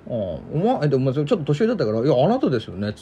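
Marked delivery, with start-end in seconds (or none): 2.1-2.9 restrained, slightly lower courteous retort; polite pushback. Retold or imitated. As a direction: act out a mildly polite correction. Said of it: "礼儀正しくね".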